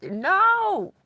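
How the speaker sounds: a sharp panicked no from the stuck friend; mock frantic refusal; imitating a panicked no.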